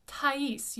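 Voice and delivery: Thais as "ta-EES", both vowels sounded; French pronunciation of Thais. Shown as a demonstration. Teacher introduces a favorite opera title, French pronunciation. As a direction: separate the a and i in Thais. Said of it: "both vowels are pronounced".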